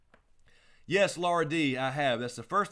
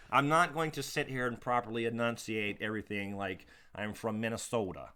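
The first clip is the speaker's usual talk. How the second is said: mock white guy voice. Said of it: "good black guy doing a white guy voice impression".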